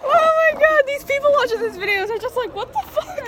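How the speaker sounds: high, loud words through laughter; squealing with laughter at the mess; laughing hard. Real, not acted. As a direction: crack up while talking. Laughing at the chaos.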